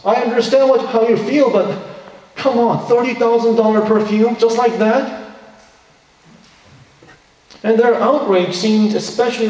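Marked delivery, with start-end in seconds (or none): 0.0-5.3 incredulous. Retold or imitated. Imagined onlooker objecting.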